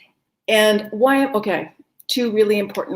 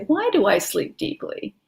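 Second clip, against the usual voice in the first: bright question; 5 semitones higher than usual. Shown as a demonstration. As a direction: question lifted higher. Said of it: "So you wanna say".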